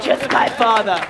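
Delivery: slow, deliberate character line; Tyrion. Shown as a demonstration. Coach models Tyrion's line for student, slowly. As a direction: draw out the words in character. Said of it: "say that again".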